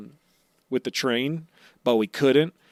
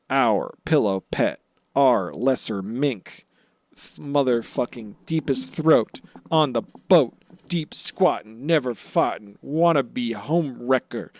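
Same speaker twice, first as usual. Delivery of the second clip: grand mock announcer roll call; silly clown. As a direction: hype up the clown like a herald.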